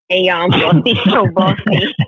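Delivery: intro broken by a real laugh. Real, not acted. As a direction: start the intro and crack up midway. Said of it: "I gotta do the intro".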